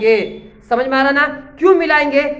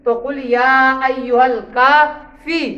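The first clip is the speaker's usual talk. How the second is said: slow recitation. Shown as a demonstration. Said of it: "फा की जगह कोई दूसरा वर्ड होता".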